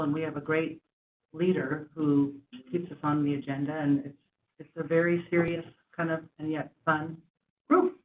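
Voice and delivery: lisping a little through retainers; careful speech around a retainer; wearing a retainer. Real, not acted. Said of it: "I have new retainers in".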